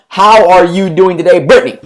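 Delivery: upbeat warm phone greeting to a new lead; lively and enthusiastic. Shown as a demonstration. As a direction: sound thrilled to talk to an old friend. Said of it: "I want you to be lively on the phone".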